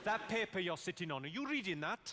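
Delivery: puzzled Welsh question; mock Welsh bewilderment; confused Welsh accent. Shown as a demonstration. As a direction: sound baffled in a Welsh accent. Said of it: "you've just got to sound confused".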